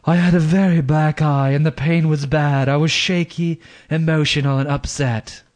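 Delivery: lightly voiced sultry English woman; a hint of a sultry English accent. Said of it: "I'm using my sultry, if Kathleen Turner did an English accent voice".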